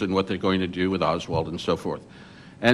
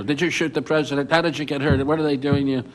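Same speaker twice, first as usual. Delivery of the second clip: higher-pitched retold yelling, no real volume; mock reporters yelling; 4 semitones higher than usual. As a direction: fire questions like a press pack, half-voiced. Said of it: "everybody yells at him".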